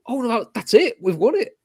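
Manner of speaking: half-mocking the players realising they've won; excited celebration. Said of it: "they all go".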